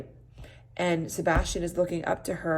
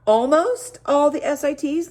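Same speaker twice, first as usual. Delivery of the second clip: nervous question; 9 semitones higher, 7 dB louder than usual. Acted. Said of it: "asked nervously".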